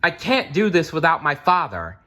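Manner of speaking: a hint of a boy who gives up; young Nicholas. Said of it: "Nicholas said to Octavius".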